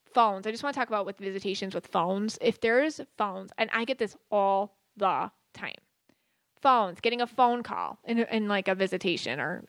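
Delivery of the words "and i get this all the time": a quick whispered aside, no voice. Real, not acted. Medium explaining phone visitations to her viewers, slipping in a whispered aside. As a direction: drop to a breathy whisper for the aside.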